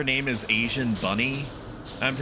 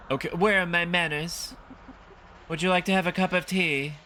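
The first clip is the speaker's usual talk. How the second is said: put-on higher-pitched, hospitable old lady; polite old woman; 7 semitones higher than usual. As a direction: offer it as a courteous elderly hostess.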